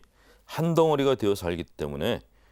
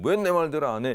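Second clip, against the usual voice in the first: higher, slightly raised mock yell; retold angry shout; 5 semitones higher, 4 dB louder than usual. Boss rejecting a subordinate's suggestion, mild mock shout. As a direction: imitate a boss's angry outburst, half-strength. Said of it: "이렇게 소리치는 분들이".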